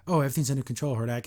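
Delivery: flat robotic answer. Retold or imitated. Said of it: "almost being robotic in her answers".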